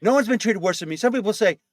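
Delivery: lightly voiced Trump boast; Trump impression. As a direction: brag like Trump, mildly.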